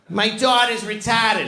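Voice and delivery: hammed-up teacher building to a shout; fifth grade sex ed teacher. Teacher explains the diagram to the fifth grade, high and building to a shout. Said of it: "She used to tell us every day".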